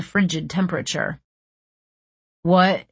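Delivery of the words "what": cried out. A narrator's reading. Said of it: "he cried".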